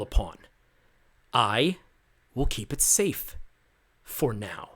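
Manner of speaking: a lightly voiced impatient soldier, pushy; impatient Marrow. Soldier insisting to his squad, mildly impatient voice. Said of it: "You can hear the impatience in his voice".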